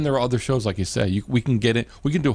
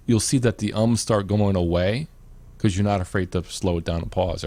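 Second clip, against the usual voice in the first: normal talking voice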